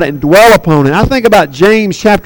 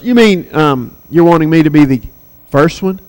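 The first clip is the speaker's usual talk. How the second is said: lower, halting, unsure question; mock hesitant; 4 semitones lower than usual. Preacher voicing the first convert taking it in, hesitantly.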